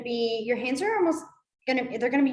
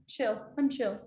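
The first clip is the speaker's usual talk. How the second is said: put-on channelling a cool kid; 5 dB quieter than usual. Shown as a demonstration. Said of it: "Channel him".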